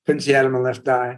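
talking through a broken jaw; words mumbled, jaw barely moving. Shown as a demonstration. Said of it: "So I used to talk like this".

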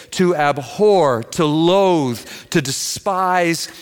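slow, deliberate list with weight on each word; slow emphasis. Real, not acted. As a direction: draw out each verb slowly. Preacher dwells on each strong verb.

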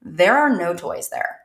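put-on slow flat deadpan child. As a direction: say it slow and completely flat, like a bored kid. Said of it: "In this very flat".

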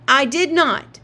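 loud, angry outburst; exploding. A narrator's reading. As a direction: blow up at her. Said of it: "Jamie exploded".

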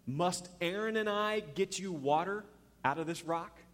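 mild acted exasperation, words spaced out; retold anger. Moses to the people at the rock, mildly angry. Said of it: "he says to the people in his anger".

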